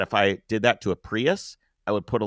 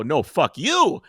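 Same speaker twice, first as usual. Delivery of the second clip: slow defiant retort; 4 semitones higher, 4 dB louder, much slower than usual. Retold or imitated. Man answering his attacker, slow defiant retort. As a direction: drag each word out in mock defiance. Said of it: "And I go".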